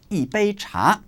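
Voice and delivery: yi in yi bei cha falling sharply, fourth tone. Shown as a demonstration. Teacher demonstrating to learners, yi falling. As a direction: drop yi hard in yi bei cha. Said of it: "fourth tone".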